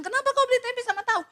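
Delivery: high, fast, loud accusing question; mock indignant wife. Wife scolds husband for buying tempeh and tofu, high fast mock outrage. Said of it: "istrinya bilang".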